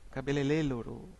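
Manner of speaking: cabeleireiro with l sounds in place of the r, cabelelelo. Shown as a demonstration. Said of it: "Nós temos aqui exemplo".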